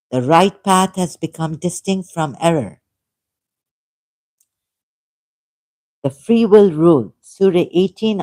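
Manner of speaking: deliberate, emphatic reading of verses; scripture reading. Acted. Quoting Quran verses on free choice to listeners, emphatic reading. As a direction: read the verses out firmly, phrase by phrase.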